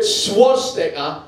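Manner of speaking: Geordie take on the word swastika; Geordie accent. Shown as a demonstration. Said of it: "in a Geordie accent".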